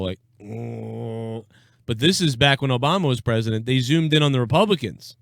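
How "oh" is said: low, soft mock moan of misery; drawn-out sulky groan; miserable moan. Podcaster imitating miserable-looking politicians, soft mock moan. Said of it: "the Democrats looking miserable".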